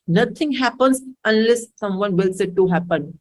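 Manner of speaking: very slow, spelled-out rule; slow mantra. Shown as a demonstration. Teacher repeats her motto to students, very slow. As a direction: lay out each word slowly like a motto. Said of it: "repeats mantra".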